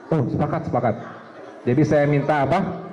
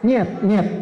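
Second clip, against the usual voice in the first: imitating Russian refusal; 3 semitones higher than usual. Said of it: "orang Rusia kalau bilang нет".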